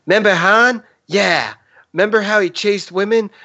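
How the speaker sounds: high, sing-song grape voice; Member Berries voice. Retold or imitated. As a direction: go way up and keep it bouncy. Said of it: "Try it again".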